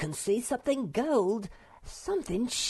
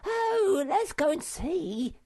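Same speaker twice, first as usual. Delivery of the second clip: very high, eager squeal; high-pitched thrilled little creature; excited eagerness; 4 dB louder, slower than usual. A narrator's reading. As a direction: pipe it up high, itching to go. Sniff thrilled by treasure.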